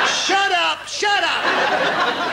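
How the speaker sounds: high cheeky puppet threat; high puppet rat mock threat. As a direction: threaten her in a squeaky rat voice.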